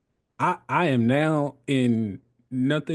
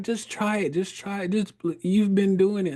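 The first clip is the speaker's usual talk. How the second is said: coaxing; 6 semitones higher than usual. Retold or imitated. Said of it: "she's like".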